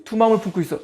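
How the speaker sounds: stern tone. Acted. Preacher voicing the verse's warning to the double-minded, stern. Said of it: "이런 논조거든요".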